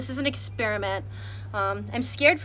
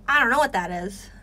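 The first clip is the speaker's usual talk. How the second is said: laughing; 4 dB louder than usual. Real, not acted. Laughs at odd find.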